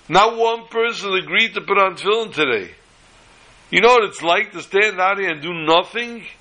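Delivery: high-pitched, exasperated plea; imploring. Retold or imitated. Freezing Bacher begging a stranger to put on tefillin, imploring. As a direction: act out a worn-out appeal, pitch held high.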